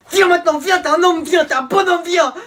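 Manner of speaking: high, loud aggressive taunt; teen squaring up to a rival; fight challenge. Acted. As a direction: square up and dare him to come.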